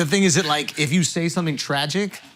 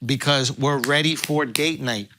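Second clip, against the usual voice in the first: hyped sponsor ad read. Acted. Host hyping the sponsor to his co-hosts, pitchman ad read. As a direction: sell it like a late-night hype man.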